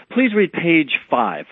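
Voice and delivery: slow, measured polite request. Acted. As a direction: ask politely and take it slowly. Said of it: "And, and again, very politely".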